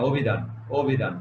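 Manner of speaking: অভিধান starting on a closed "o"; correct pronunciation. Shown as a demonstration. Teacher repeating অভিধান for students with an ও sound. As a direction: say অভিধান separately, first vowel rounded to ও. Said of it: "ও এর মতো উচ্চারণ".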